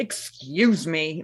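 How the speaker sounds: slow, prim kindergarten teacher scolding; very slow prim teacher reprimand; full teacher voice. Retold or imitated. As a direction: draw it out like a strict teacher. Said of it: "putting on full teacher voice".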